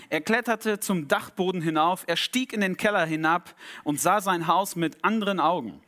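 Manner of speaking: animated storyteller with lively pitch; story narration. A narrator's reading. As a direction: tell a dramatic tale to a congregation. Reads a story aloud.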